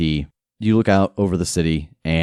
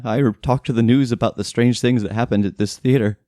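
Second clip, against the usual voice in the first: raised voice of a shaken victim; worried housekeeper; 7 semitones higher, faster than usual. Acted. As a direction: ask anxiously as the housekeeper.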